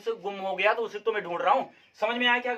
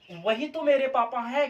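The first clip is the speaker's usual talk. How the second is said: slow example; 4 semitones higher than usual. Shown as a demonstration. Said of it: "कहते हो ना".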